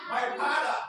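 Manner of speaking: put-on Hausa-accented "father", F turned to P. Teacher showing how Hausa speakers swap F for P, Hausa accent. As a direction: say "father" as "pada", Hausa-style. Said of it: "they put P".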